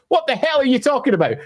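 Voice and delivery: lightly voiced reader insisting on a misreading; mock clueless reader. To the Scot, a reader sounds out the Irish name wrong, with mock certainty. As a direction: play a stubborn fan who misreads the name. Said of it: "We don't get a character called Sean and say".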